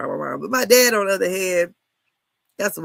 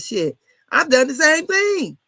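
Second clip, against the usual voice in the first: slow, louder mock of the doctor; hammed-up retelling, higher and slower; blunt quote; 6 semitones higher, 6 dB louder, slower than usual. Retelling Doctor Heavily's blunt admission to listeners, in a mildly mocked, slowed voice.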